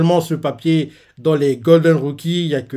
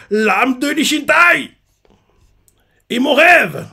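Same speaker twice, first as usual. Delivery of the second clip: commander's speech; 2 semitones higher than usual. Retold or imitated. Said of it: "il leur fait".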